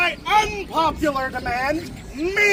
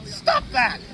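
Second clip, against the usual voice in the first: hammy stage actor; 12 semitones higher than usual. Acted. King protesting loudly.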